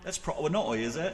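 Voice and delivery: softly mimicked British phrase; attempted British accent. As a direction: try the co-host's British accent, quietly. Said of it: "trying to get you to say".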